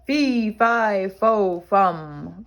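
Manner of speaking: the giant chases Jack, roaring. Acted. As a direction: roar it out in pursuit. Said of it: "roared the giant".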